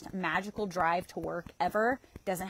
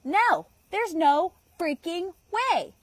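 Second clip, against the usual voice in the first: mock disbelief; 9 semitones higher, 5 dB louder, much slower than usual.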